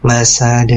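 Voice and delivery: "Masad" with the d released in a short echo; bouncing final dal. Shown as a demonstration. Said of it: "di bunyi huruf dal sukun". ("Masad" dengan pantulan dal)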